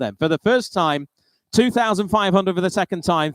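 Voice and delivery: brisk auctioneer bid calling. Real, not acted. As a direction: rattle off the bids, keep the room moving.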